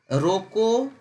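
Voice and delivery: रोको alone, held with a rising end; comma after रोको. Shown as a demonstration. Teacher shows students where the comma was, रोको set apart. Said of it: "comma यहाँ पे क्या था".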